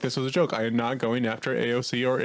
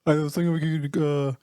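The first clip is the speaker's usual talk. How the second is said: lightly voiced British singer, hesitant; a hint of a put-on accent, halting; imitating a singer. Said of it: "I'm changing up the accent a little bit".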